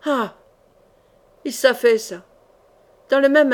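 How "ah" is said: brief falling "ah" of someone struck; short death cry. A narrator's reading. Old soldier struck by attackers, short cry. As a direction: let out a short, restrained cry of pain. Struck down mid-fight, then collapses.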